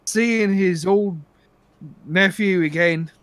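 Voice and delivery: boastful stage-Irish crook; bad Irish accent. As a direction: brag in a rough Irish brogue. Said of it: "how bad my Irish accent is".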